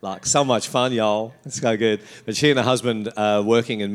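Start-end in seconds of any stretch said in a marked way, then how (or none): 0.3-2.0 put-on playful touch of American Southern accent. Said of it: "I love doing that accent".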